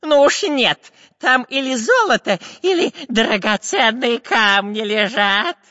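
high, loud cartoon-robber voice; insist, slowing on the last words; greedy robber. A narrator's reading. Robber is sure of jewels in the chest, high and insistent.

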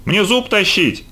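put-on high, slow boyish wail; high-pitched, drawn-out plea; crying out. A narrator's reading. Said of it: "Какой крик поднял".

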